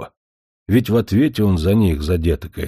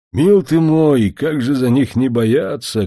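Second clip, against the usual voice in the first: higher, louder and slow, full of sorrow; an old healer's slow mournful cry; grieving lament; 7 semitones higher, 5 dB louder, slower than usual. A narrator's reading. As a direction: grieve over the children, drawing it out. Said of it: "кручинился Матвей Емельянович".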